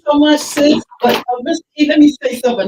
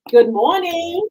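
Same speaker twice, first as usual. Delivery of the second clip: raised, higher greeting to a faint caller; calling out; 7 semitones higher, 3 dB louder, slower than usual. Real, not acted. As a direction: call into the phone line. Host greets caller on phone line.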